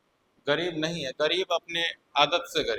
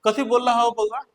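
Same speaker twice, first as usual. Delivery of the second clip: amused aunt; 3 semitones higher than usual. Retold or imitated. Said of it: "वो हंसने लगी".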